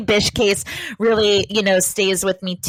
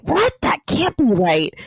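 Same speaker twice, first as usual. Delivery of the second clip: mock disbelief; 2 semitones higher than usual. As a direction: react as if puzzled by what you read. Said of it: "I'm like, I'll read it and I'm like".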